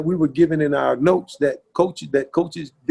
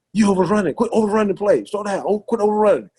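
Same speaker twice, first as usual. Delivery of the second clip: imitated teammate's correction; 5 semitones higher than usual. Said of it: "because he was like".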